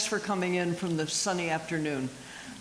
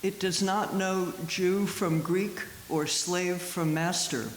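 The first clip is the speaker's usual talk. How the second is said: slow, measured poetry recital; poem reading. Acted. Poet reads Miłosz's Incantation to an audience, measured. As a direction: read the verse slowly, with deliberate pauses.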